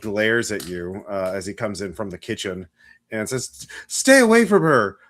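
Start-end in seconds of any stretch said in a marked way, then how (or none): 3.9-4.9 odd, strange, very high-pitched, loud voice. A doctor coming in from the kitchen warns the player off, strange high-pitched voice. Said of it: "his voice sounds strange, um, high pitched".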